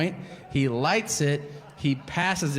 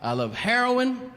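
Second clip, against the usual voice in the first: stoned driver; 5 semitones higher than usual. Retold or imitated. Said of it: "He goes".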